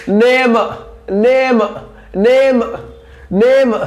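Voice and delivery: teacher stretching the vowel of नेम; long vowel demo. Shown as a demonstration. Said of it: "ई की sound long आ रही है".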